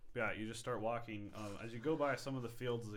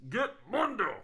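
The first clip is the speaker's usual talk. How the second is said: high, much louder call with a harder Mundo; guard's shout; 12 semitones higher, 13 dB louder than usual. Acted. Guard correcting the name, shouting it high and loud. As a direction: yell it out from the wall.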